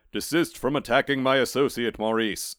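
a hint of stern Death. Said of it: "said Death".

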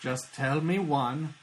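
Doctor Venture. Acted. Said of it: "Doctor Venture, good times".

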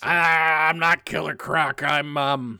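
lightly voiced comic-book lizard man; Kurt Connors. Disguised villain insisting he is someone else, lightly voiced impression. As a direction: open on a loud drawn-out cry, mildly hammed-up. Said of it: "My best Kurt Connors".

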